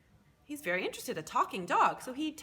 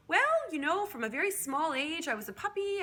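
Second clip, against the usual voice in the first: talking dog; 7 semitones higher, 3 dB louder than usual. Acted. Talking dog tells his story.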